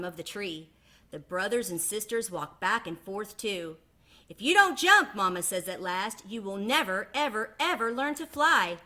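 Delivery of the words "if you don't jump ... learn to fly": loud, stern-ish mother; mama duck warning her stubborn babies. Acted. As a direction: lay down the last argument. Mama's final warning.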